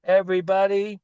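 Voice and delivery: very high, bright wake-up call; squeaky high wake-up voice. Shown as a demonstration. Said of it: "let's use that voice to say".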